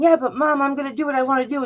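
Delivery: high whiny imitation of a rebellious teen; mock teen protest. Mother imitates daughter's planned protest, mock whiny teen. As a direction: mimic the protest speech she must have rehearsed. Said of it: "she must have planned this huge".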